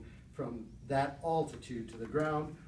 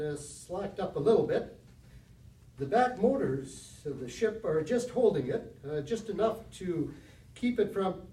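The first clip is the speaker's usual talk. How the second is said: a touch of live broadcast urgency, slightly louder; radio reporter commentary; 3 semitones higher, 4 dB louder than usual. Retold or imitated. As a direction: reenact the announcer calmly describing the landing. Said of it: "Herbert Morrison said the following".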